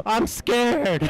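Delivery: scared gasp. Real, not acted. Scared in horror game.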